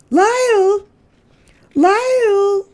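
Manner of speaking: high, ringing call across the house. Acted. Mrs Prim calls Lyle to meet the guest, high and ringing. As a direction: call for him from another room. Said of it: "called Missus Prim".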